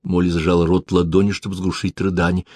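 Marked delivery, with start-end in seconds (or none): none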